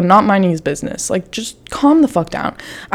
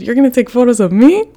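outraged disbelief; 5 semitones higher than usual. Retold or imitated. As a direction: build from affronted question to squealed outrage. Retold outraged reply to the man.

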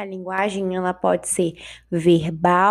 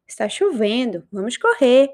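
exclaiming. Shown as a demonstration. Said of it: "expressar um espanto, emoção".

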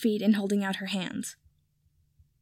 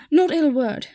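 quick, higher, louder denial; 6 semitones higher, 6 dB louder, slower than usual. A narrator's reading. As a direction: blurt it out in a flash of panic. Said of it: "Kipper said quickly".

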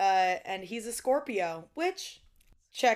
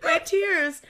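laughing mock tears; 6 semitones higher, 6 dB louder, slower than usual. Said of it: "By crying on it".

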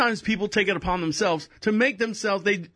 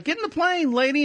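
crew ordering her back; 8 semitones higher than usual. Retold or imitated. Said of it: "They're like".

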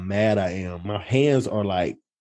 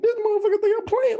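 retold outrage. Retelling furious thought, voice cracking up.

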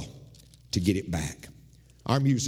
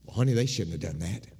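sympathetic; 5 semitones lower than usual. Retold or imitated. Husband comforting his wife, tender and sympathetic. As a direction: gently take your wife's side. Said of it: "what I should have said is".

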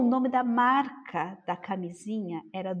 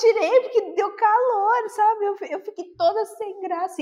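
laughing; 10 semitones higher, 4 dB louder than usual. Real, not acted. Laughing at embarrassing memory.

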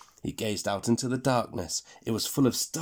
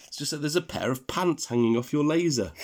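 laughing; 6 semitones higher than usual. Acted. Tom laughing at the pants.

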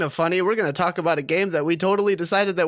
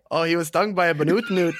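attempted Scottish accent. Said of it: "You don't sound Scottish, you sound African there".

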